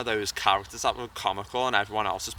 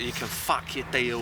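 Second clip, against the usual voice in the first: put-on rough Cockney accent line. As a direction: deliver it in a London Cockney accent. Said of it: "I did a Cockney accent".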